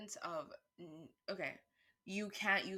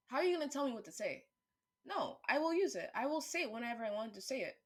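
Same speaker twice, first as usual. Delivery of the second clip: fast, higher and louder, defiant; defiant outburst; 5 semitones higher, 4 dB louder, faster than usual. Real, not acted. Speaker refusing to be told what to say, defiant and fast. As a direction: fire back at anyone telling you what to say. Defiant rant about word use.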